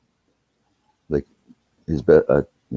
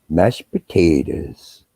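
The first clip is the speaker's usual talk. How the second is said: slow, goofy announcement of the food; drawn-out clowning; much slower than usual. Retold or imitated. Brother at the wedding table showing off his food, drawn out. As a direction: stretch each word out slowly, savoring it.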